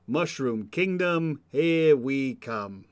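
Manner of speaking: slow, plain movie-hero delivery; Chris Pratt Mario. Retold or imitated. Mocking the movie Mario, slow plain Chris Pratt voice. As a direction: say it in his regular voice. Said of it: "the Chris Pratt accent for Mario".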